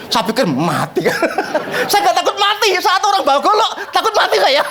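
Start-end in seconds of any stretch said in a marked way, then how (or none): 1.9-4.6 high, quick words breaking into laughter; laughing while talking. Real, not acted. Preacher recalling the man with a machete, laughing as he talks. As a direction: laugh through the admission, pitched up. Laughing over his own scare story.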